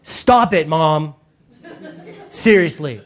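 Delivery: put-on whiny, eye-rolling teen groaning at his mom; teenage son fed up with his mother; exasperated teenager. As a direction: sigh it out like a fed-up thirteen-year-old.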